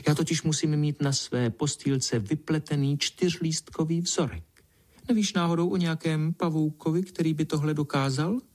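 put-on high, self-important girlish voice; the vain ladybird lording it over the spider, voiced high; haughty little princess. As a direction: lie grandly, nose in the air. Pinkalinka boasting to spider.

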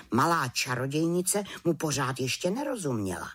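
ordinary delivery, nothing marked

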